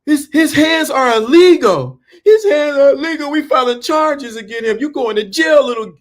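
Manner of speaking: put-on the mother accusing the boy; angry mother. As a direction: yell it like a furious mom. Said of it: "his mother said".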